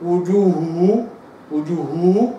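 وجوهه with the second h blurred; a careless وجوهه; wrong wujuhuh. Shown as a demonstration. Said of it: "لكن لو أنا قلت". (نطق خاطئ لوجوهه)

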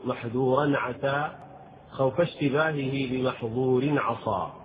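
measured, chanted recital of the verse; verse recitation. Acted. Recites poem lines.

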